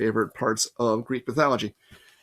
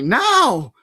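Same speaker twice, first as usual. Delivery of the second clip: much higher, loud shout; urgent yell; 9 semitones higher, 5 dB louder than usual. A narrator's reading. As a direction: order him out of the bus. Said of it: "Annabeth yelled at me".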